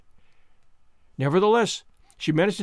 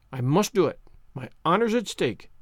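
understated, grave resolve; solemn. A narrator's reading. Girl accepting a dare for her honor, solemn. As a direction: declare it solemnly as a matter of honor. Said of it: "said Anne solemnly".

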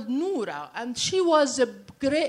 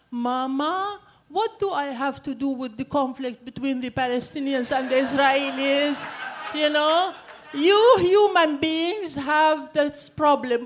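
the little dog talking; 4 semitones higher, 4 dB louder than usual. Acted. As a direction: patiently explain to Mama, as the pet.

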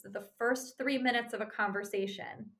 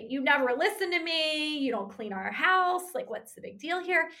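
escalating criticism; 5 semitones higher, 3 dB louder than usual. Pretend. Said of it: "amp it up and criticize him some more".

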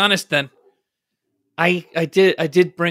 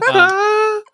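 much higher, louder startled wow; high surprised wow; 4 dB louder than usual. Acted. New guest startled by the gushing welcome, high wow.

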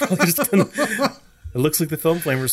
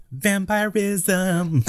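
spooky vampire drawl; 7 semitones higher, much slower than usual. Acted. Drawn-out spooky word.

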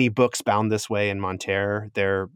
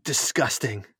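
a hint of a higher, appalled stranger; shocked NPC woman; 5 semitones higher than usual. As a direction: lightly voice her disgust and disbelief.

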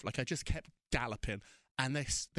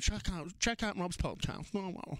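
flippant Wendy; 3 semitones higher than usual. Retold or imitated. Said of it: "really flippantly".

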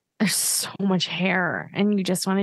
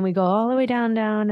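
voice sinking with the move; 5 semitones higher than usual. Shown as a demonstration. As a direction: pitch drops on all the way down. Describing dance move going down.

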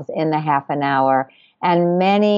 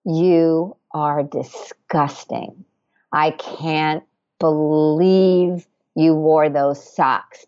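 slow, contemptuous scolding of yourself; the crazy aunt in the attic, slowly scolding; scolding inner critic; 3 semitones lower than usual. Retold or imitated. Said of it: "and in this voice".

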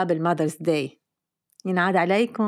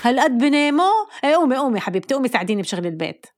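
mock scolding mother; 3 semitones higher, faster than usual. Mother wakes daughter.

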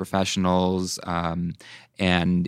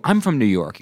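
higher, delighted acted reply; excited recognition; 6 semitones higher than usual. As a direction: answer like an instant best friend abroad. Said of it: "suddenly you're best friends".

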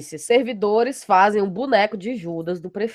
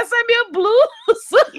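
father's voice; 14 semitones higher than usual. Retold or imitated. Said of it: "e meu pai".

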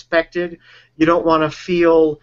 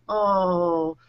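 mock disappointment. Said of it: "you're kind of disappointed".

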